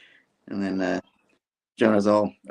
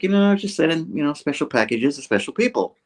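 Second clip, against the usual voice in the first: quoting Iron Man; 7 semitones higher than usual. Retold or imitated. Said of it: "It's like".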